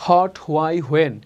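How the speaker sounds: "Hot" for what, starting with a plain h; old learner's reading of "Hot, why, when"; old mispronunciation. Shown as a demonstration. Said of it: "এইভাবে আপনি আগে পড়তেন".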